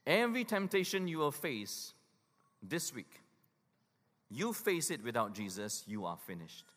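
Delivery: deliberate, spaced-out restating of the warning; slow it right down so every word lands; slow motion. Shown as a demonstration. Preacher repeating the warning slowly so they catch it. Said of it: "Let me say that to you in slow motion".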